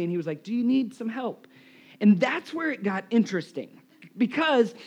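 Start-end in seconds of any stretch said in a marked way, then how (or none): 0.4-1.5 softened, gentle offer; kindly waiter. Retold or imitated. Waiter offering baffled diners some help, softly kind. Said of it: "looks at us so kindly".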